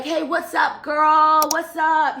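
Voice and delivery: high, loud retold catcall-style hello; calling out a greeting. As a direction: imitate a vendor hollering hello from a window. Voices a street vendor calling out.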